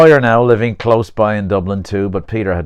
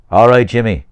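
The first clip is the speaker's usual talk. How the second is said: loud, raised reply; called-back greeting; 4 semitones higher, 7 dB louder than usual. Acted. Man answering his old classmate across the street, called-out greeting. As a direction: holler a hello back across the road.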